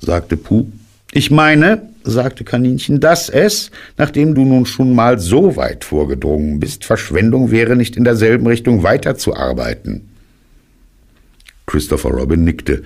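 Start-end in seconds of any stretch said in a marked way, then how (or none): 1.1-10.1 höher, belehrend und eifrig; hohe Kaninchenstimme. Acted. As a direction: das besserwisserische Kaninchen. (hohe Kaninchenstimme, belehrend)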